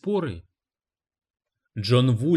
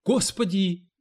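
a high shrieking "Господи!"; 7 semitones higher, slower than usual. A narrator's reading. Cleaning lady shrieks, ignoring the publisher. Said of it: "визжала Джилси".

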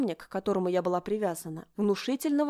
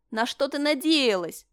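sneering; 6 semitones higher, 5 dB louder than usual. Acted. Miriam sneers at heroine.

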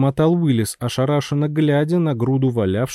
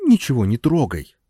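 calmer tone. Acted. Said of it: "куда более спокойным тоном".

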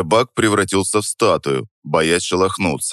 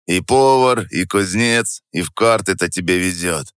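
хриплый недружелюбный голос. Acted. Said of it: "Голос у него был хриплый, недружелюбный".

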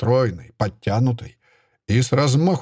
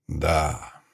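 drawn out; 7 semitones lower, 5 dB quieter than usual. A narrator's reading. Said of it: "протянул редактор".

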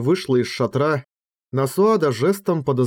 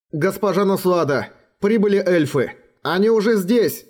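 breathless high urgent shout; urgent panting report; 6 semitones higher than usual. A narrator's reading. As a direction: gasp out the news, out of breath. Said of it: "и, задыхаясь, крикнул". (запыхавшийся тревожный крик)

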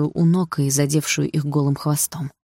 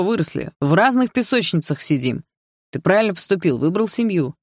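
put-on older brother scolding, a bit raised; lecturing older brother. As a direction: talk down to your little brother.

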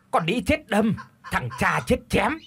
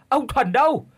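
higher, rising call across the village; 5 semitones higher than usual. Acted. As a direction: shout the question, ending up high. Wife calls her absent husband. (gọi to, lên giọng cuối câu)

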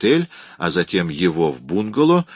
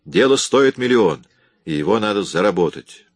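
raised voice; 4 dB louder than usual. Acted. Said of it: "не кричи на меня".

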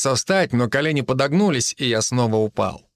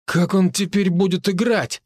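higher-pitched, mildly tipsy worry; a touch of anxious slurring; worried, slurred; 7 semitones higher than usual. A narrator's reading. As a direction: fret lightly through a drunken tongue. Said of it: "обеспокоенный, но чертовски заплетающийся голос".

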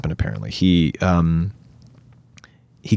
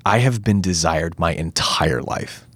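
earnest monologue. Retold or imitated. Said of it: "Andrew says this thing".

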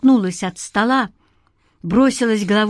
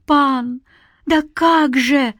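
a touch of tears, slow and lightly pitched up; mild tearful plea; 5 semitones higher, slower than usual. A narrator's reading. Granny to the creature, mildly tearful. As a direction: whimper a short plea. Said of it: "всплакнула бабка".

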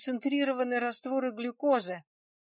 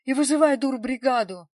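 loud, high yell of an order; 4 semitones higher, 9 dB louder than usual. A narrator's reading. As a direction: bark the order across the room. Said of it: "орал Самойлов". (громкий высокий крик-приказ)

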